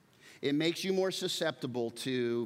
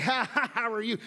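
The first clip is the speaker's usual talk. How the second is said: fake cheerful greeting; 8 semitones higher, 4 dB louder than usual. Fake cheer while losing control.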